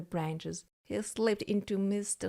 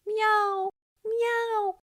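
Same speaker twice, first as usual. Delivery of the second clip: high, loud miaows called out with all his might; calling out; 12 semitones higher, 5 dB louder than usual. A narrator's reading. Kitten calls to his girl, loudly miaowing. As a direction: call for your girl with everything you've got. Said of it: "call out with all his might".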